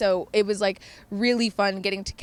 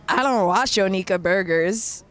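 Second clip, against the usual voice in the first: louder, disgusted flat retort; 3 semitones lower, 4 dB louder than usual. Retold or imitated. Friend retorting in disgust to Monty's joke, disgusted. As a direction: spit it out like it's beneath her. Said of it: "disgusted like this".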